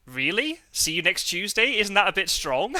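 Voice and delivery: high, loud incredulous double take; mock shock. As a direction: act scandalised at an innocent word. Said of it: "my brain just instantly went".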